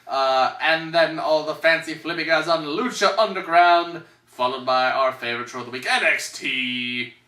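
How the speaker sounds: carnival barker pitch; hammed-up huckster listing the attractions; snake oil seller. Barker pitch of show contents.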